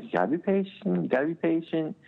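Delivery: put-on high, sing-song parent-to-toddler voice; coaxing parent. Dad coaxing impatient small daughter.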